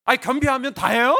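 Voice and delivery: loud, high indignant challenge; heated outburst, rising sharply at the end; arguing with God. Retold or imitated. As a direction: raise the voice and demand an answer. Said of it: "제가 따졌거든요".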